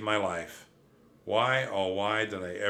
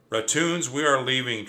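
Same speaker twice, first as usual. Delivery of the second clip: loud, high wake-up call; a cousin yelling a dawn wake-up; shouting; 3 semitones higher, 5 dB louder than usual. Acted. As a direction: bellow it to rouse everyone. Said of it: "Trap shouted through a megaphone".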